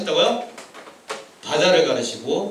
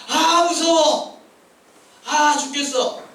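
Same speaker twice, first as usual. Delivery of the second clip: high, hammed-up fearful wail; mock panicked complaint; 8 semitones higher, much slower than usual. Preacher voicing people trapped before the sea, mock panic. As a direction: act out being scared to death. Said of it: "불평한다는 거지".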